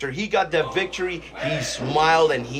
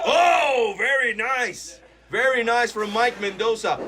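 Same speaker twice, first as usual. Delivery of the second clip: excited; 5 semitones higher, slower than usual. Real, not acted. Commentator reacts to kick.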